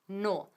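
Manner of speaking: "No" held alone as the stressed syllable; stressed first syllable. Shown as a demonstration. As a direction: isolate "No", the opening syllable of normally, long vowel. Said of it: "El acento recae en la primera sílaba".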